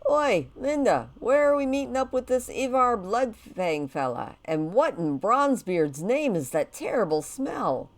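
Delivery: gruff dwarf, lightly voiced. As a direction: bark it like a dwarf general.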